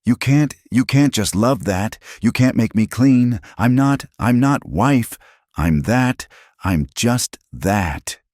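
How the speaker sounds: high, tearful, desperate voice; a woman breaking down over a cruel word; distraught young woman. Acted. Alina tells Eli what the men called her, high and distraught.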